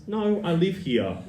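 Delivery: a slow, puzzled correction from the neighbour; firm but surprised. Retold or imitated. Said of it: "this girl looks at her and says".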